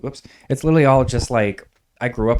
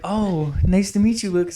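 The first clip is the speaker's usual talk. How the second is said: sweet high greeting; 10 semitones higher than usual. Retold or imitated. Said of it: "And people were like".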